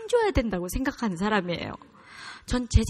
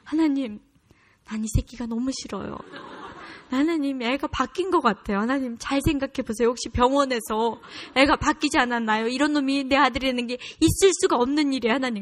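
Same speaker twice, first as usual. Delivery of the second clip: pleading complaint to God, pitched up; acted exasperated prayer; 4 semitones higher than usual. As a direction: plead with God like a fed-up mother. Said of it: "그리고 새벽에 나가서 기도했어요".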